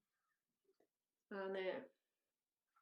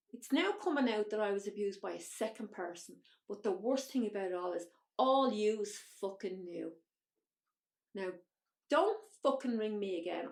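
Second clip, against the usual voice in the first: louder, heated retelling of a phone row; retold screaming; 6 dB louder than usual. Telling her aunt and uncle never to call, heated retold yell. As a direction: relive the blow-up, hitting it harder. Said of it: "I was screaming on the phone".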